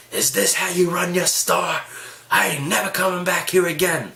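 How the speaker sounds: high, put-on outraged old woman; pissed-off old lady. Old lady to store manager, hammed-up high outrage. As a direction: imitate an irate customer complaining. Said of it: "is just getting so pissed".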